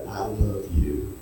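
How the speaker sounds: slow loving hush; soft tender voice of Jesus. Shown as a demonstration. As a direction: breathe it gently as Jesus. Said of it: "Listen to him say it to you".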